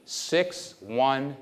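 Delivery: each digit spaced and set apart; a memory tester reading digits aloud. Shown as a demonstration. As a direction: dictate the numbers one by one for recall. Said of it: "I'm gonna read to you numbers".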